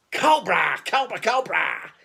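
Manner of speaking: hammed-up catchphrase yelled out; mock catchphrase shout.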